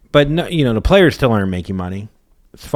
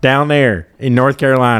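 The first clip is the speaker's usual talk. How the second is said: raised, loud put-on Chinese accent; mock Chinese accent; 4 semitones higher, 5 dB louder than usual. Comedian plays North Carolina restaurant owner, mock Chinese accent. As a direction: keep up the jokey Chinese accent, higher and louder. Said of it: "Do the accent".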